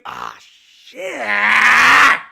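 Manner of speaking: drawn-out, exasperated curse; frustrated shout. Real, not acted. Streamer cursing at the game, frustrated shout. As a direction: yell it out as the play goes wrong.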